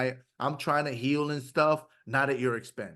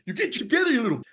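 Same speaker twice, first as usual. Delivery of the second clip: much higher, harsh berating snarl at himself; mean inner voice; 8 semitones higher, much faster than usual. Retold or imitated. A man imitating the mean voice he uses on himself. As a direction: spit it out like scolding yourself. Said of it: "very mean".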